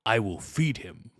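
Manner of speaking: stiff Klingon officer line; Worf. Acted. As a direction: state it with Klingon solemnity. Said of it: "looking up famous Worf quotes".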